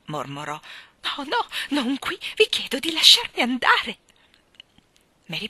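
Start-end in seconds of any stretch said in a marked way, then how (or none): 1.0-4.0 high, wailing, near-tearful plea; imploring. A narrator's reading. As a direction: beg to escape, almost crying. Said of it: "in atto di implorazione". (supplica acuta, quasi in lacrime)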